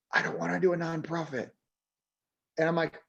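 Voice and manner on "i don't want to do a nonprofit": hushed, voiced stage whisper. Retelling a student's words in class, imitating someone half-whispering. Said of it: "she whispered and says".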